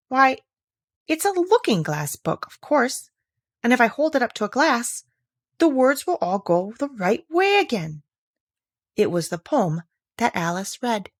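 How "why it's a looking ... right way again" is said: higher, eager sudden realisation; light up with the discovery; bright idea. Acted.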